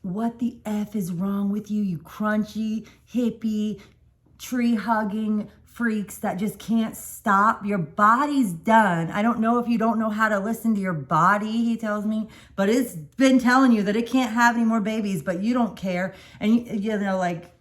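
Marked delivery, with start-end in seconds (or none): 0.0-11.6 fast-building retold tirade, louder and slower as it goes; doctor reaming out the parents, imitating his fury; retold angry rant. Doctor scolding the pregnant couple, retold angry rant. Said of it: "being cussed out starts happening". 12.5-16.1 doctor reaming out the parents, imitating his fury; retold angry rant. Doctor scolding the pregnant couple, retold angry rant. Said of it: "the anger coming out of him".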